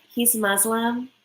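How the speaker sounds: "Muslim" slowly as MUZ-lum, imitating her; mock her American z in "Muslim"; mock Americanized pronunciation. Imitating the bride naming his faith, Americanized "Muslim". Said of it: "she's like".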